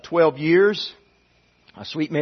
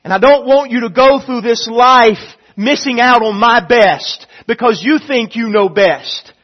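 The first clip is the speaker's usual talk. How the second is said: God pleading; 4 semitones higher, 5 dB louder than usual. Acted. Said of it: "God says".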